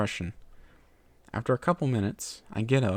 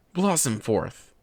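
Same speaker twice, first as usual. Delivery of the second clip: shout; 2 semitones higher, 3 dB louder, slower than usual. Acted. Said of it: "he shouts".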